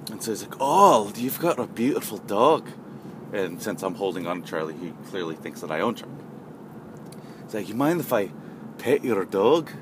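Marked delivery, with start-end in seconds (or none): 0.6-2.7 lightly mocked European accent; emphatic European accent. 7.7-9.7 lightly imitated European accent. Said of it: "a European accent".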